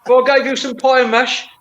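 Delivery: put-on Geordie accent. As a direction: spin the yarn as a Geordie. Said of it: "is that Geordie accent".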